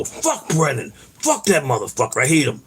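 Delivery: drawn-out, mildly angry cursing; retold pissed-off. Retelling his reaction to the Brennan change, pissed off. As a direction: replay your anger without shouting it. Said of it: "I was pissed".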